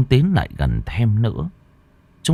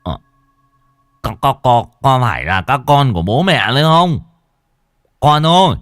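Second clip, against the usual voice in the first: put-on louder, quavering plea to his children; tearful old man; 4 semitones higher, 6 dB louder than usual. Old father pleading tearfully with his dead children. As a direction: beg the ghosts, near tears. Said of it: "Lão Sửu mếu máo".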